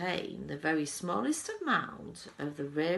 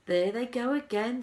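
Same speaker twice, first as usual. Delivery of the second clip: excited Wonka; 8 semitones higher, 9 dB louder than usual. A narrator's reading. Wonka remarks on the singing.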